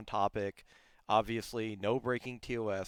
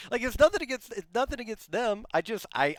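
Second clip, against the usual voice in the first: exasperated outburst; 11 semitones higher, 7 dB louder than usual. Real, not acted. Exasperated rant about eating noises.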